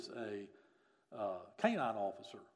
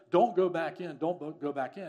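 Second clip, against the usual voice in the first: retold urgent warning, raised and louder at first; 5 semitones higher, 10 dB louder than usual. Officers telling a rescuer to stay out, urgent warning. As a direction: imitate officers urging someone to stay back.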